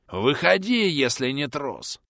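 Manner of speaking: bellowing a challenge; furious shout. Acted. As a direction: yell it, daring them out. Bandit challenges his unseen enemy.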